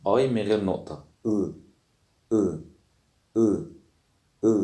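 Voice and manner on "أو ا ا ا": "أو" and "ا" said as short Turkish ı; isolated "ا", the dotless ı vowel, repeated; Turkish dotless ı demo. Shown as a demonstration. Teacher drills dotless i for learners, short isolated vowel. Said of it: "هو عبارة عن آي في الإنجليش بس من غير نقطة".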